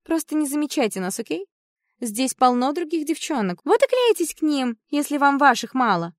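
high, loud irritated snap; angry. Acted. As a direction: tell them off, annoyed. Yasmina snaps at boys.

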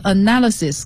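spaced-out teacher's spelling. Shown as a demonstration. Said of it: "给大家拼一下".

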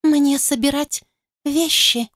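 rising plaintive question, dejected; plaintive mumble. Acted. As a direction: ask it forlornly. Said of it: "жалобно пробормотала упавшим голосом".

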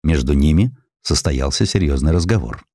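ordinary delivery

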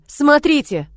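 loud, high cry; man shouting to look at the sky; exclaiming. Acted. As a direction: point and shout to the crowd. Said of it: "воскликнул Вернон".

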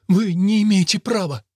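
plain reading voice

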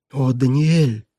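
sister cries out her brother's name; a pleading cry of his name; exclaiming. Acted. Sister pleads with miser brother, crying out. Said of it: "воскликнула сестра".

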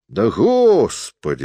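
high, drawn-out easygoing exclamation; good-natured. A narrator's reading. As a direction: wave the worry away, stretching it out. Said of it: "сказал лесник благодушно". (благодушно, высоко и врастяжку)

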